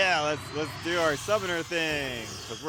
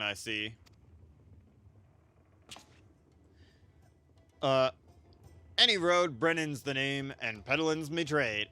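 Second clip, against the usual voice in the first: voiced merchant Brennan. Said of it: "I'm gonna try to voice over everybody".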